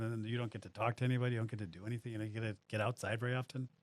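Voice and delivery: dry sarcasm, deadpan; sarcastic. Real, not acted. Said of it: "That's sarcasm, by the way".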